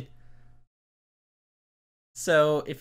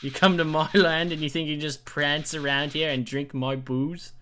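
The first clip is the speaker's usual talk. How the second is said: British. Acted. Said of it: "British accent".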